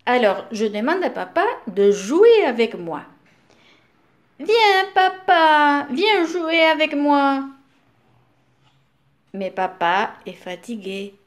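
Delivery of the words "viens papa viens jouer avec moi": put-on higher, louder eager little boy calling his dad; eager child pleading. Little boy begging his tired papa to play, eager and high. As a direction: call papa over, begging him to come play.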